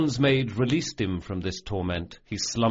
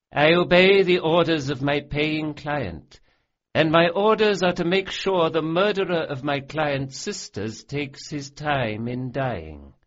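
loud, raised menace, slowing on the last words; cold threatening mage; 6 semitones higher, 4 dB louder than usual. A narrator's reading. Bonds mage tells Locke his orders, coldly menacing. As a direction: lay out his fate with cruel relish.

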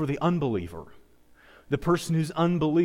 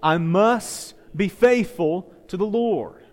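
slow, measured lead for the congregation; leading a recitation; 3 semitones higher, slower than usual. Shown as a demonstration. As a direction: say it slowly so everyone can join. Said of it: "Everybody say that with me".

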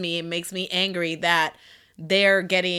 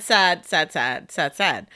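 mock mournful; 4 semitones lower, slower than usual. Repeating sad mock-mournfully.

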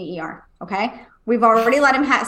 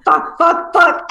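imitated pained cursing; 4 semitones higher, 4 dB louder, slower than usual. Repeats son's cursing in pain.

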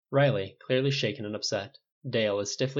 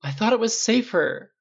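high, slow, louder plea; pleading; 12 semitones higher, 6 dB louder than usual. A narrator's reading. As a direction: plead your case, pitched high. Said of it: "Riley pleaded".

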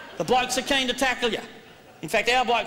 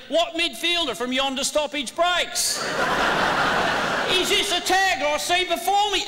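Elizabethan verse; 5 semitones higher, slower than usual. Shown as a demonstration. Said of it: "teaching you blokes to speak in Elizabethan verse".

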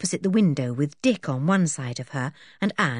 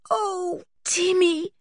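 remorseful tenderness; 12 semitones higher, slower than usual. A narrator's reading. George remorseful to her dog.

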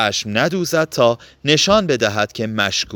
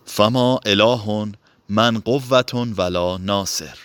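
slow recitation; slower than usual. A narrator's reading. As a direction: recite the Arabic verse slowly. (قرائت آرام و شمرده)

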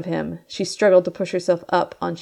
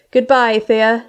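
called; 4 semitones higher, 5 dB louder, slower than usual. Acted. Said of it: "Tilly called".

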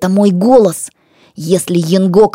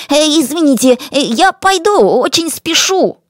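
high, hesitant apologetic excuse; suddenly flustered; 8 semitones higher than usual. A narrator's reading. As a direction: stammer an excuse to get away. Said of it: "потом вдруг спохватился".

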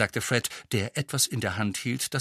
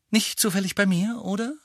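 sarcastic; 10 semitones higher than usual. A narrator's reading. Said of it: "meinte Harry sarkastisch".

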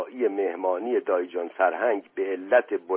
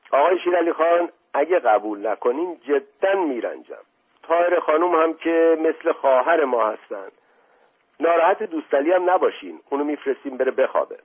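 higher, bright insistence, quicker at the end; eager coaxing prince; 6 semitones higher than usual. Acted. Prince Asadollah urges the butcher to stay, raised and eager. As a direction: sweet-talk him into staying. Prince warmly presses the invitation.

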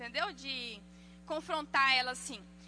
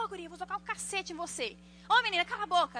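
raised, higher mock telling-off; imitating a parent snapping at a child; mock scolding parent; 4 semitones higher, faster than usual. Parent threatening a child in public, mock scolding.

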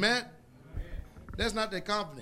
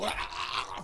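mock gasps. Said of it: "sit there and go".

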